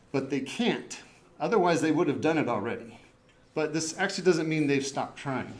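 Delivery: out of breath, winded; breathless at high altitude. Real, not acted. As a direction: talk while short of breath. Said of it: "I'm out of breath up here".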